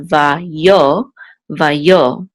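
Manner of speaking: "va yo" with the weight on "yo"; stress on second syllable. Shown as a demonstration. Teacher showing where the accent falls, second-syllable stress. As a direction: lean on "yo" in each "va yo". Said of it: "accent will be on the second syllable".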